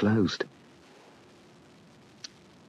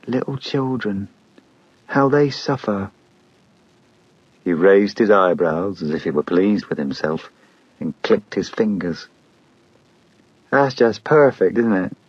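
gloating. Acted. Killer gloats over child.

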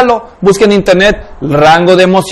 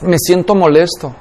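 calmly admits "molesto", words even and sincere; name the feeling "molesto" plainly and gently; calm honest answer; 4 semitones lower, 5 dB quieter than usual. Acted. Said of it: "pregúntame otra vez". (respuesta calmada y sincera)

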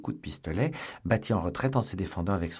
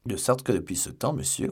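lightly voiced woeful host; pitiful innkeeper; 4 semitones higher than usual. A narrator's reading. Innkeeper answers D'Artagnan, a touch pitiful. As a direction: pick up the words in a higher, plaintive voice. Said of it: "la figure piteuse de son hôte".

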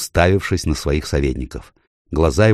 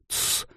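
a soft breathy shh to hush someone; warning shh to his companion; 12 dB quieter than usual. A narrator's reading. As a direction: shush them quietly before they say more. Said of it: "произнёс Сапеспиан".

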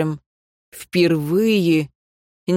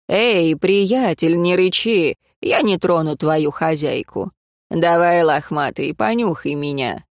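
soothing a dog. Acted. Man soothes growling dog.

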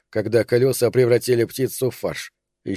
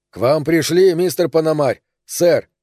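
louder, higher showman's announcement; grand compere announcement; 4 semitones higher, 3 dB louder than usual. Acted. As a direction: present the guests like a theatre compere. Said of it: "как конферансье в знаменитом театре".

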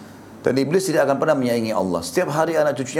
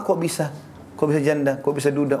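surprised question; 3 semitones higher than usual. Retold or imitated. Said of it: "pertanyaan pertama".

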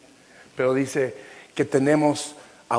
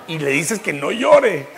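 laughing at own joke; 6 dB louder than usual. Real, not acted. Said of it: "Yo mismo me estoy haciendo reír".

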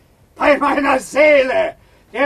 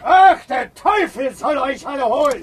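cursing shout. Acted. Biron cursing as he flees.

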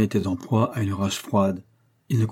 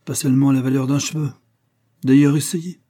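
sad and mocking; 5 semitones higher, 4 dB louder than usual. A narrator's reading. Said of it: "d'un air tout à la fois triste et goguenard".

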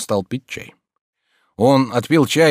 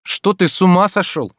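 snapped out in irritation, higher and louder; heated retort; 8 semitones higher, 5 dB louder than usual. A narrator's reading. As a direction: cut him off crossly. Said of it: "с сердцем перебил Обломов". (с сердцем, раздражённо)

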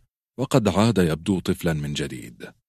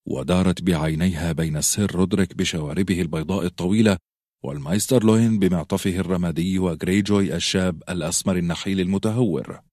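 plain reading voice

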